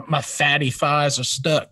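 mock ASMR in a country accent. Joking ASMR bit about himself, country accent. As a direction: play country into the mic. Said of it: "why do you have a country accent".

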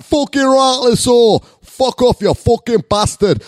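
loud, high mock Northern hard man; hammed-up, uncertain Northern English yell; botched Northern accent. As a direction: bellow like a hooligan in a bad Northern accent. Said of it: "I don't know what accent that is".

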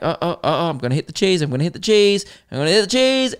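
mock alarm that climbs each time; mock panic building. Trolley rider panicking toward the cheese display, rising mock alarm. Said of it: "And you're like".

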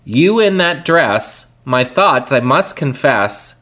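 measured spoken recital; deliberate, evenly phrased lyric reading; reading lyrics aloud. Acted. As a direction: recite the song words like a poem. Reads lyrics aloud as verse.

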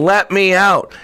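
put-on a wronged child begging to be let out; upset pleading. Teacup in the fire begging the potter, hurt and pleading.

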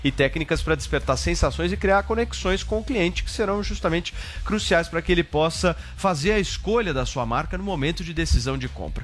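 fast pushy sales pitch; hard sell ad. Acted. Host launches a sponsored ad.

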